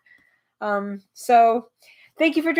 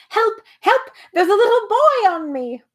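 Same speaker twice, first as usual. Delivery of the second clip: high, loud panicked cries; shouting for help; 10 semitones higher, 5 dB louder than usual. Acted. Bee pinned under Milo, high loud cries for help.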